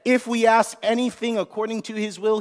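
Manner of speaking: "if" lifted and stretched; stress on if. Shown as a demonstration. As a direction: lean on "if", rising. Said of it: "everyone say if".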